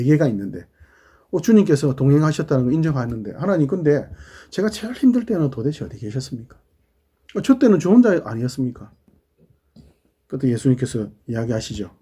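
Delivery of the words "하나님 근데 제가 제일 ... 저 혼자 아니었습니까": mildly protesting, pitch lifting on the complaint; aggrieved questioning. Acted. Man in the parable asks God where he was, aggrieved. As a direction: plead with a touch of reproach.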